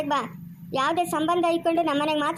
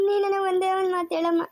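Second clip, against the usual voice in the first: crying plea; 3 semitones higher than usual. Acted. Poor woman begs, crying.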